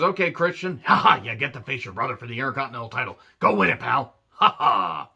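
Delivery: hammed-up jubilant boss with fake laughs; play-acted glee, quick in the middle; mock jubilant. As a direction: imitate a gloating boss, punctuated by ha-has. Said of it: "Vince is all jubilant and everything".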